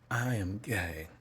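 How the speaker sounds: firmer voiced, still emotional; emotional confession. Real, not acted. Child telling mom again, emotional confession. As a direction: say it fully aloud through real emotion. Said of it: "I literally feel the feeling I felt then".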